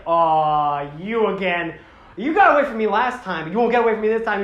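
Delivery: loud, cocky menace, hammed up; mock angry monster.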